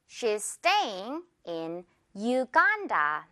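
very slow, "Uganda" as yoo-GAAN-da; slow model sentence. Shown as a demonstration. Teacher gives an example to repeat, slow model with "Uganda" as yoo-GAAN-da. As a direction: space each word, stretch "staying" and "Uganda". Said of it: "갑니다".

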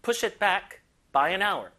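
slow, both "push" and "back" stressed. Shown as a demonstration. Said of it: "양쪽에 힘 줄게요".

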